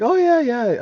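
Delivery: high, loud retold gush; loud, high-pitched imitation of chattering enthusiasm; mock-eager trader. Imitating excited retail traders he met.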